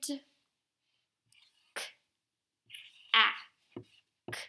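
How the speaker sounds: "k, a, k" with long pauses between sounds; sounding out. Shown as a demonstration. Teacher spells pretend word while writing, segmented. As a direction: isolate each letter sound, short A. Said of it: "going to do the word".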